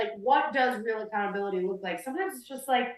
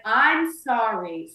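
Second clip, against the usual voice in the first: slow fake apology; much slower than usual. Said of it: "And I was like".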